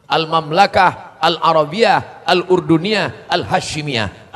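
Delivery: Al-Mamlakah Al-Arabiyah Al-Urduniyah Al-Hashimiyah declaimed loud and slow, each word drawn out; Arabic full name declaimed. Shown as a demonstration. Preacher teaching the congregation Jordan's Arabic name, loud and slow. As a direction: proclaim the full Arabic name slowly and loudly. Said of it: "Al-Mamlakah karena dia sistem kerajaan".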